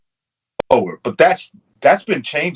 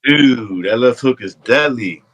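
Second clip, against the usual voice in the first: laid-back surfer drawl; surfer dude voice; slower than usual. Acted. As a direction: say it like a stoned surfer. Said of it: "why'd you sound like a surfer".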